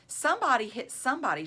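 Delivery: mild excited shout. Acted. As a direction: urge the fight on fast. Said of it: "shouted Lori".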